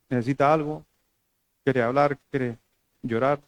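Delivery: softly offered comfort, acted out; tender, hushed questions; gentle concern. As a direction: ask softly, as to a crying wife. Gently offering comfort to crying wife.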